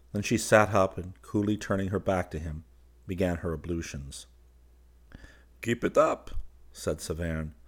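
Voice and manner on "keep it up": interested. A narrator's reading. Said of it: "much interested".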